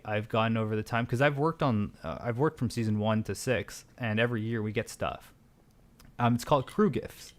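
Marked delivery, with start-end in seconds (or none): 6.2-7.3 talking with a dry mouth; parched, needs water. Real, not acted. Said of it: "My mouth is so dry".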